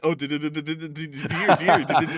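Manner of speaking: high, stammering little-pig squeak; Piglet voice. Acted. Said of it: "that was my Piglet impression".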